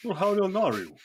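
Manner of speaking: put-on dwarf startled at the child's age; surprised question. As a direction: blurt it in surprise.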